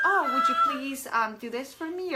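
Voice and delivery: mock extra-polite ask; sugary request at the coffee counter; overly polite. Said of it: "we're like".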